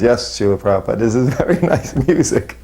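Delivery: retold yes-man reply breaking into laughter; amused imitated agreement. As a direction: agree dutifully, then let a laugh lift the pitch. Meek agreement quoted, laughing at himself.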